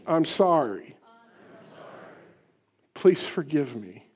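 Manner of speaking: slow, heartfelt I'm sorry; sincere apology. Shown as a demonstration. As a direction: say it like you mean it. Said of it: "say it like you mean it".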